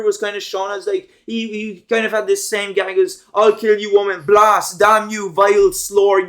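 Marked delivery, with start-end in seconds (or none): 3.3-6.3 louder, hammed-up cartoon villain cursing; mock angry threat. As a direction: imitate an angry cartoon rant, punching each curse. Acting out Stewie's recurring gag threats.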